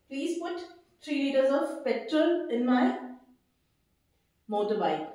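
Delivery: each word drawn out, very slow; slow model sentence. Shown as a demonstration. Teacher reads example sentence to students, very slow. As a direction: read it slowly for the class to copy. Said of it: "How do we pronounce this word?".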